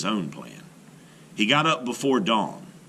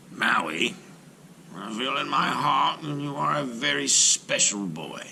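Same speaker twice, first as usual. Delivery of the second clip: whispered; 4 semitones higher than usual. A narrator's reading. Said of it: "he whispered".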